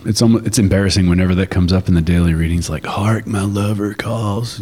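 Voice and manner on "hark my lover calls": mock-solemn recitation. Mock solemn reading of scripture.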